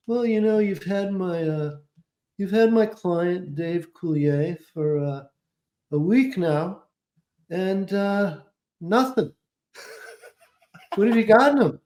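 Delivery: a hint of a demanding powerful manager; Brad Gray impression. Client posing as manager to scold agent, lightly done. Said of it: "amazing impression".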